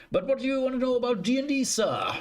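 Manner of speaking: high, fast put-on voice reading chat; playfully voicing the chat question. Streamer reads chat question in voice.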